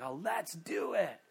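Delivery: drawn-out, stoked agreement; an eager crowd, imitated with slow relish. Preacher voicing people told to celebrate, stoked. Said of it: "they're just so stoked to do it".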